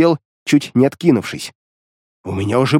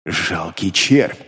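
low, slow demonic scorn; deep demon voice spitting contempt; demon's contempt; 8 semitones lower, 3 dB quieter, much slower than usual. A narrator's reading. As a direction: sneer down at a worm. Demon Beliar insults hero.

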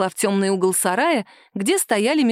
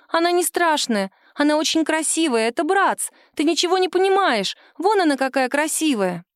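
put-on high, eager child's voice; little girl defending her doll; 8 semitones higher than usual. A daughter defends her doll to her mother, childlike and high. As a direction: plead like a stubborn little girl.

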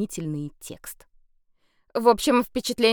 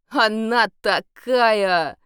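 slow, dreamy lovesick sigh; slow swooning vampire; 3 semitones higher, 6 dB louder, much slower than usual. A narrator's reading. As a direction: sigh it out, lost in love. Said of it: "мечтательно вздыхал вампир".

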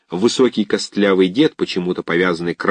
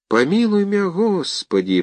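high, startled babble; babbling prayer; 10 semitones higher than usual. Acted. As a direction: gasp out the prayer in fright. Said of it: "пролепетал он".

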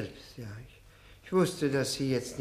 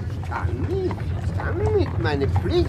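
high, loud wailing refusal; drunken protest; 10 semitones higher, 6 dB louder than usual. Acted.

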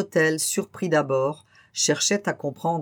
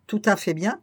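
insisting; 4 semitones higher than usual. Acted. Innkeeper insists, then repeats.

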